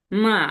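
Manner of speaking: long dipping-then-rising "মা"; third tone. Shown as a demonstration. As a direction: bend "মা" down and back up. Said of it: "এরকম একটা শব্দ আসবে". ("মা"-এর সুর নামিয়ে আবার তোলা)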